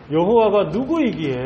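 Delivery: restrained repeat of royal scorn; a milder touch of contempt; mocking Pharaoh. Preacher repeats Pharaoh's scorn to explain it, mildly mocking. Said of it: "바로 왕이 완전히 조롱하고 있는 겁니다".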